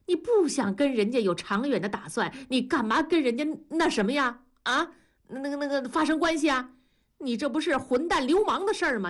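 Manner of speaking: high, exasperated lecture to her son; a mother scolding, rising in disbelief. Acted. Mother lecturing her grown son, high and exasperated.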